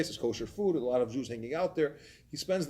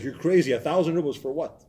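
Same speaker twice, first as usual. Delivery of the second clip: mock outrage, louder; incredulous protest; 4 semitones higher, 6 dB louder than usual. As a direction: retell a husband's indignant balking at a price. Husband balks at the price.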